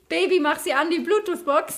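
calling out. Retold or imitated. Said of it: "wir haben alle gerufen".

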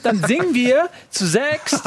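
slow, laughing through the words. Real, not acted. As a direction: drag it out while laughing. Joking announcement, laughing.

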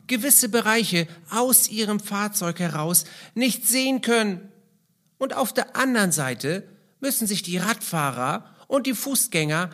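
fröhliche Kasperstimme, quirlig; lustiger Clown. Acted. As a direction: spiel den Kasper, der Kinder begrüßt. Kasper puppet greets the children. (verspielte Kasperlestimme)

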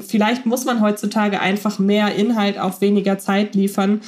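usual speaking voice

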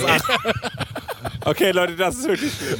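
tipsy, giggly slurring. Real, not acted. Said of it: "ich bin besoffen".

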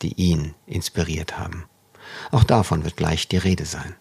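measured, carefully phrased radio read; composed literary radio presenter; scripted host introduction. Real, not acted. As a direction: read a prepared essay-like intro to listeners. Host reads scripted podcast introduction.

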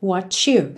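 "what you" run together with a ch sound; linked T and you. Shown as a demonstration. English teacher shows learners the junction, linked ch sound. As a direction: say "what you" as "wha-chu", slowly. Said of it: "junções de palavras terminadas em T com you".

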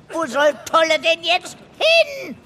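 loud, indignant protest. Acted. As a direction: raise your voice against the guard. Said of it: "Bitte, nicht so laut".

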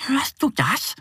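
high little duck voice asking; duckling voice. Acted. Duck Annie asks her friend Mo, high and curious. Fragt sie.

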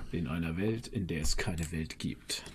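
deep, slow trailer voice; old sci-fi announcer. Pretend. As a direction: intone it like a movie trailer. Trailer voice "In einer Welt. (tiefe, langsame Trailerstimme)

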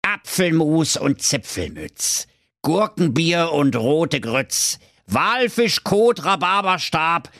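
slow, high spell chant; murmured incantation. Acted. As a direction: conjure it slowly. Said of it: "murmelte beschwörend".

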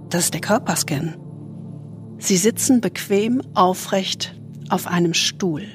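soothing spa whisper. Acted. Leads a body scan meditation.

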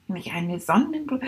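unvoiced whisper of a daydream; whispered thought. Shown as a demonstration. Rat whispering its sunflower daydream. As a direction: breathe it like a secret thought. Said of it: "hab ich gedacht".

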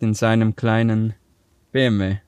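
"B M W" set apart after a pause; pause, then stress B M W. Real, not acted. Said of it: "Warum betonst du das mit dem B M W".

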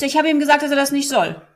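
put-on a touch of a little girl reporting proudly; imitating a girl. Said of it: "Mädchen, die hat gesagt". (Mädchen in der Family-Club-Runde erzählt, leicht kindlich höher)

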